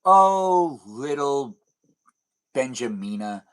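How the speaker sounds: hammed-up fond sigh of a papa, falling away; pretend doting papa. Streamer as papa answers imagined daughter, mock-fond parent. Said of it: "then I'll go like".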